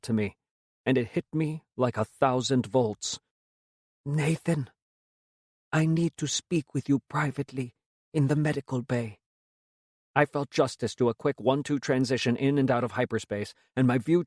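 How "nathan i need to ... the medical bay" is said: frail raspy voice. A narrator's reading. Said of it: "a frail, raspy voice call out".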